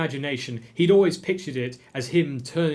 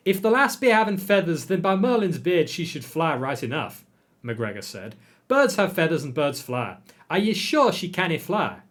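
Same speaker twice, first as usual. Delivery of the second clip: lightly Scots, insistent and raised; hint of Scottish mayor; 4 semitones higher, 3 dB louder than usual. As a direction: argue it as a stubborn Scottish uncle. McGregor insists loudly.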